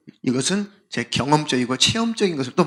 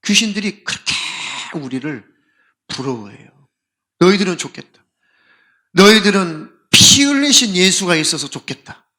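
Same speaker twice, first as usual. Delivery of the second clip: imitating a pleading demon; 2 semitones higher, 4 dB louder than usual. Demon envying believers, mock tearful pleading. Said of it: "울면서 하소연하죠".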